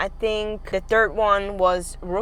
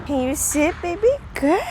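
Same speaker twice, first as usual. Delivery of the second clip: talking to a dog; 3 semitones higher than usual. Real, not acted. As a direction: coo praise at a sweet dog. Baby talk to a dog.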